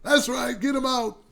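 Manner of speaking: a second try at sounding like Trump; Trump impression. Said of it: "Trump don't sound like that. It's more like".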